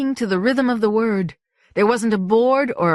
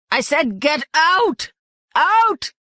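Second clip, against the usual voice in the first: higher, slow urgent yell; urgent shout; 9 semitones higher, 3 dB louder, slower than usual. A narrator's reading. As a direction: order her out over the din. Malingo urging her away.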